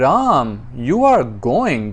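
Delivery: sarcastic, pointed "you are going"; satirical tone. Shown as a demonstration. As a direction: say it with a mocking edge. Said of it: "sound like a satire".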